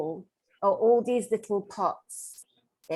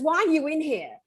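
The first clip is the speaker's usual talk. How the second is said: higher-pitched mock demand; retold startled question; 5 semitones higher, 3 dB louder than usual. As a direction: act out her startled challenge. Retold startled challenge from client.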